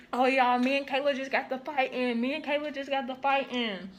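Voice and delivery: high, excited tattletale; spreading the news eagerly; gossipy voice. Retold or imitated. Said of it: "started running her mouth".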